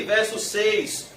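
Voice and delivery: normal talking voice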